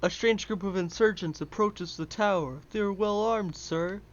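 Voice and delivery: loud dopey goon report; dim henchman. Pretend. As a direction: bark it out like a dim soldier. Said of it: "your biggest goon voice".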